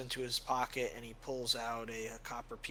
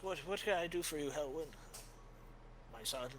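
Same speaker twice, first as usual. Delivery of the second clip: quick high kindly priest; lightly voiced caring father; old priest voice; 4 semitones higher than usual.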